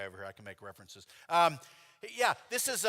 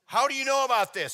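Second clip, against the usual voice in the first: much higher and louder, alarmed; alarmed outburst; 10 semitones higher, 11 dB louder than usual. Retold or imitated. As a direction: burst out in a startled cry. Startled stranger confronts the passenger.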